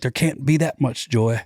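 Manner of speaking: imitating a Southern religious guy in a thick Georgia accent; mock deep Georgia accent for the old religious spirit; deep Georgia drawl. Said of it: "my voice goes to deep Georgia when I do that guy".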